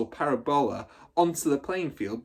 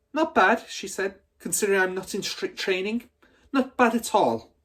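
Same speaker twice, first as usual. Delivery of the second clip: loud, higher, self-satisfied; smug bully voice; 9 semitones higher, 4 dB louder than usual. Acted. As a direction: boast like a proud brute. Trunchbull smug after the throw.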